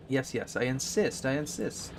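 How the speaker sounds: a lightly hammed Russian villain accent insisting; bad guy Russian accent. Streamer insisting to viewers in a mock Russian villain accent. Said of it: "decided for a bad guy Russian accent".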